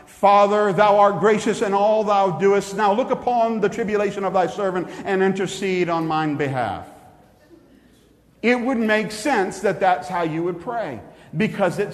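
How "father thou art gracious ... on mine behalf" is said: put-on grand Old English prayer; olde speech. Shown as a demonstration. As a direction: intone it like an archaic churchman. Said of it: "pray something like".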